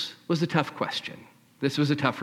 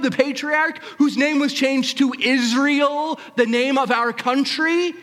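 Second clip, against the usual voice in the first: high, loud, skeptical woman's voice; incredulous woman; 11 semitones higher, 4 dB louder than usual. Acted. Samaritan woman questioning the stranger, high incredulous voice. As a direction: challenge him, pitched up and doubtful. Woman at well challenging Jesus.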